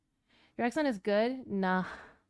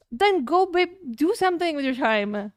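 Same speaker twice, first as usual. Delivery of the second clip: 1 teasing; 6 semitones higher than usual. Real, not acted. Teasing retort at partner.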